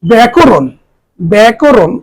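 ব্যাকরণ said as "bæ-ko-ron"; teacher's model of ব্যাকরণ; model pronunciation. Shown as a demonstration. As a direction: carefully sound out ব্যাকরণ with open æ and round o. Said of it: "উচ্চারণ করলাম".

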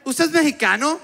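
high mock señora voice; señora on the phone. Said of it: "y ahí el la señora y que".

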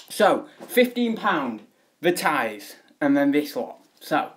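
out of breath after the stairs; breathless, still winded. Real, not acted. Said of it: "God, I'm out of breath now".

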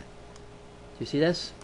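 slow hushed question; hushed, drawn-out question; whisper. Real, not acted. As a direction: lean in and whisper it. Whispered aside while pointing.

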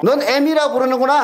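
애미라 pressed, the line rising at the end; mocking stress on 애미라. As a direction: throw 애미라 back with a rising sneer. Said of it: "애미고, 뭐". (애미라에 힘주고 끝을 올리며 비꼬듯)

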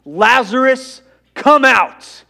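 high, booming summons to Lazarus; loud calling out. Acted. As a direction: call him out at a full shout. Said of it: "called out in a loud voice".

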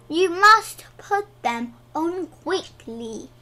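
cross shout. A narrator's reading. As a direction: press it on them crossly, loudly. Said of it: "shouted the man crossly".

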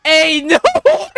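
high cracking exclamation; real astonished howl; wild disbelief. Real, not acted. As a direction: let the disbelief shoot upward. Disbelief, repeated more wildly.

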